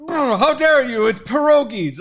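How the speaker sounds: high, loud hammed-up cartoon British accent; a posh cartoon British huff in a cartoon British accent. A cartoon British speaker scolds the chat in a hammed-up British accent. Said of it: "a cartoon British Disney character".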